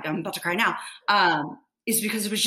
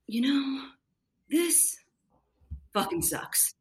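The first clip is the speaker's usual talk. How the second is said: breathy whisper of a private thought; whispered inner thought; 6 semitones higher, 5 dB quieter, slower than usual. Retold or imitated. Nurse whispering her frustration to herself. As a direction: whisper it like you're only thinking it. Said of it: "I just thought to myself".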